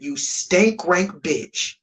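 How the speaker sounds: ordinary talk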